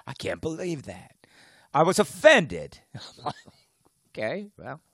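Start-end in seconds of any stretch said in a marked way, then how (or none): 0.1-2.8 mock offended commenter. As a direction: parody a prissy complainer. Mocking an offended listener.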